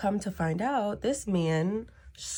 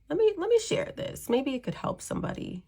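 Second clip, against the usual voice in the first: excited; 11 semitones higher than usual. Retold or imitated. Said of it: "I was like".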